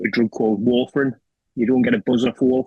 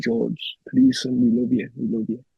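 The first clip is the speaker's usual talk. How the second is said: pleading through tears. Retold or imitated. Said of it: "he's crying and saying".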